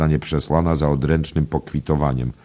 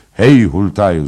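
loud, raised-pitch hail; shouted call; 5 semitones higher, 11 dB louder than usual. A narrator's reading. Knight hailing the innkeeper, shouted call. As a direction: call out sharply to summon someone. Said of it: "zakrzyknął ów".

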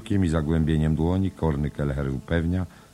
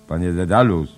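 loud, higher call; 5 semitones higher, 11 dB louder than usual. Acted. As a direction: call his name to wake him. Trying to wake Stefan. (Blum głośno woła Stefana)

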